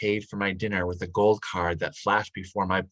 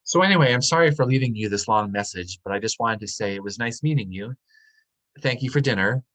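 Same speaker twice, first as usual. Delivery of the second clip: bright voicemail cheer; 3 semitones higher, 4 dB louder than usual. Acted. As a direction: switch to a higher, louder, cheerful phone-message voice. Turns out a voicemail to date.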